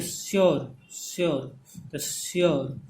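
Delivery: श्योर said apart with a gliding vowel, falling; careful श्योर, vowel sliding down at the end; model pronunciation. Shown as a demonstration. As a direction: sound out श्योर for learners. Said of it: "ऊ और ओ का sound आ रहा है".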